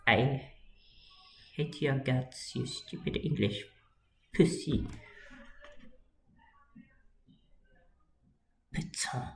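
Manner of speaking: hammed-up angry Frenchman; a lightly put-on French accent; mock French accent. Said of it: "do a French accent now".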